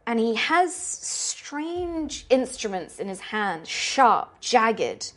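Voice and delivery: slow, deliberate horror scene-setting; game master narration. Acted. Game master showing players a torture room, slow and ominous. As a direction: draw out each grim detail with dramatic pauses.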